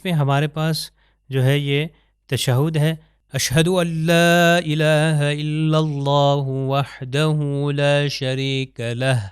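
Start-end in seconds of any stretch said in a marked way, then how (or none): 3.3-9.3 اشہد ان لا الہ الا اللہ وحدہ لا شریک لہ slow, ending on a clear ہ; slow Arabic testimony recitation. Shown as a demonstration. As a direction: recite slowly, breathe the ہ of لہ. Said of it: "لہ کی آواز ہے".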